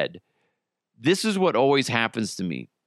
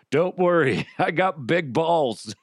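swaggering cowboy; 4 semitones higher than usual. Acted. Cowboy character answers.

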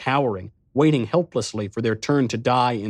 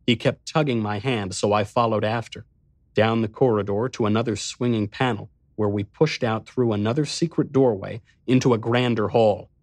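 usual speaking voice

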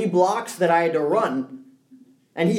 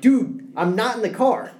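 calling after car; 5 semitones higher than usual. Retold or imitated. Running after departing car.

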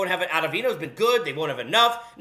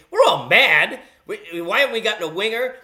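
mock fan outrage; 6 dB louder than usual. Voicing Islander fans' anger.

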